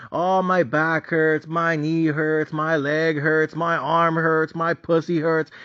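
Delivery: slow, drawn-out mock complaining; mocking injury whining. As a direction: whine each ache like a fake-hurt player. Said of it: "always talking about injury".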